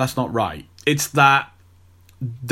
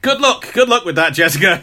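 sarcastic; 5 semitones higher, 4 dB louder than usual. Acted. Scoffing at actress's claim.

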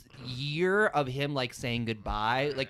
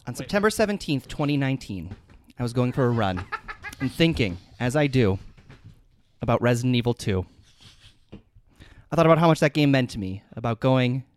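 mock formal speech; 2 semitones lower than usual. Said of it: "I have a prepared statement".

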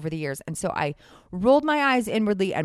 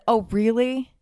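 passive aggressive; 2 semitones higher than usual. Retold or imitated. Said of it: "passive aggressive and said".

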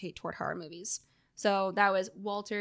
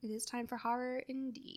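hushed, ominous horror-host whisper; spooky whisper; 11 dB quieter than usual. Pretend. Co-host ushering in the horror segment, spooky whisper. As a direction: whisper it with mock dread.

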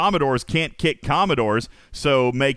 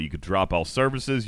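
normal talking voice

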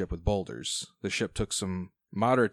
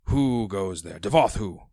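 louder, haughty undead king; ancient rasping undead king; 6 dB louder than usual. Acted. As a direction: demand it like a ghost king.

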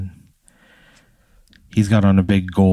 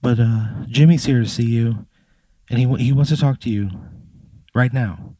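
Victoria; 4 semitones higher, faster than usual. Acted. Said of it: "she's like".

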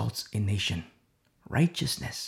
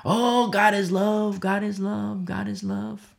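slow, higher, fading mock of a lax pastor; hammed-up soothing pastor, trailing off; 4 semitones higher, slower than usual. Preacher imitating what Corinth pastors said, slow and fading. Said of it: "what those pastors said".

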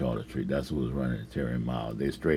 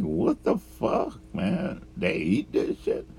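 high, incredulous questioning; retold disbelief; 6 semitones higher, slower than usual. Newcomer reacting to Cajun food, baffled. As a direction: play back a baffled reaction.

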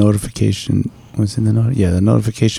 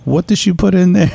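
incredulous; 10 semitones higher, faster than usual. Retold or imitated. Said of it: "I was like".

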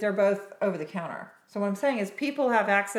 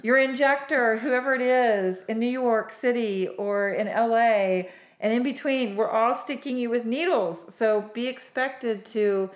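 emphatic; 3 semitones higher, 5 dB louder than usual. Real, not acted. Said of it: "emphatic point to audience".

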